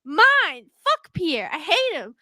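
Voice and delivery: loud, indignant rant at the shopkeeper; mock furious rant. Ranting at Pierre for selling her produce, mock furious. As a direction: tell Pierre off for stealing your goods. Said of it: "I'm like".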